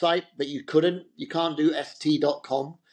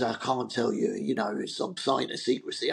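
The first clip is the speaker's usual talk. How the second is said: lower, hushed secretive voice; impression of a rock singer; 4 semitones lower, 4 dB quieter than usual. A rock singer bound by a secrecy deal, low secretive voice. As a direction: keep the secret close, lowered voice. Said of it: "He goes".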